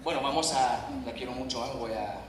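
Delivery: Spanish with an American accent; non-native Spanish, English-speaker accent. Real, not acted. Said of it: "disculpen mi español".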